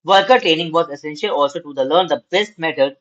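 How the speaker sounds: slow, measured reading aloud to students; slow classroom read-aloud; slow textbook reading. Acted. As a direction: read each phrase out deliberately for the class.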